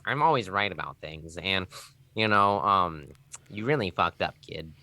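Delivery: hesitant, know-it-all mock nerd; internet nerd voice. Shown as a demonstration. Streamer demonstrating his other accent to co-host, nerd voice. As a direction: parody a self-important anime nerd, pausing on fillers. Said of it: "Let's hear the other one".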